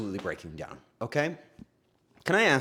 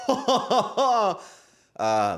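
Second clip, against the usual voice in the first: slow, higher hammed-up "ha, ha, ha"; lightly voiced fake dad chuckle; mock rich dad laugh; 10 semitones higher, 3 dB louder, much slower than usual. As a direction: imitate a stiff polite crowd laugh. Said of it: "some of them laughed like that".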